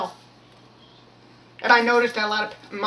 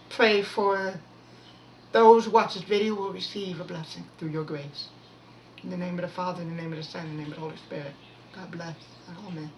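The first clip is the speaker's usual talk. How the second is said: personal prayer; 2 semitones lower than usual. Real, not acted. Closes the prayer.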